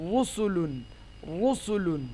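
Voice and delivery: রুসুলুন with a thick rounded "ru"; heavy Ra. Shown as a demonstration. Teacher repeats the pesh example, রুসুলুন with heavy Ra. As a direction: start রুসুলুন on a full dark R. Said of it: "মোটা হবে".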